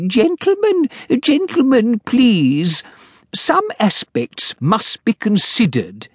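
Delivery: high, fussy little clerk; timid clerk. Acted. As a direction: plead politely like a nervous clerk. Clerk character voice.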